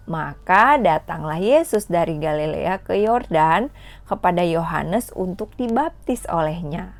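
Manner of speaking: put-on measured, clear Bible reading for children; scripture reading. Teacher reads Matthew to kids at home, in a clear storytelling read.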